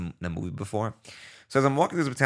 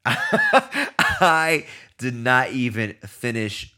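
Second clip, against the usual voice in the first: laughing; much slower than usual. Real, not acted. Laughing recalling disgusting food.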